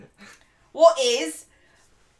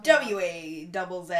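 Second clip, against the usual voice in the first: letters read one by one; spelling it out; 4 semitones lower than usual. Shown as a demonstration. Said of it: "How do you spell it?".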